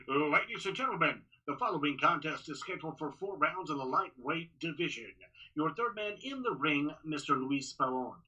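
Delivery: measured, steady fight announcement; ring announcer intro. Shown as a demonstration. Announcer demos his current calm ring introduction. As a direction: announce the bout calmly and clearly. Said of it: "right now it's".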